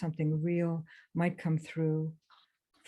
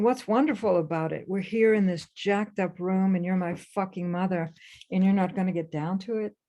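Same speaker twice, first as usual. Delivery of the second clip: thoughts raised in anger, a bit louder; inner fury; 4 dB louder than usual. Retold or imitated. Adoptee's unspoken anger at her birth mother, louder. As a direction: let the silent rage spill out at the mother. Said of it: "I'm thinking".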